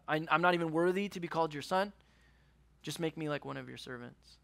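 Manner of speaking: a broken son asking only to serve; humble pleading son. Acted. Prodigal son begging his father, softly pleading.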